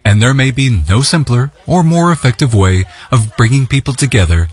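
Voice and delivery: measured, even reporter's read over music; news voiceover. Acted. Reporter introduces the festival to viewers in a news read. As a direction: narrate the festival report like a broadcast piece.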